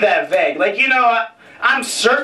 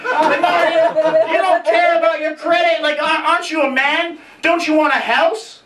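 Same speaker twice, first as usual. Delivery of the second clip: mock nagging girlfriend; 6 semitones higher than usual. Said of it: "she was always like".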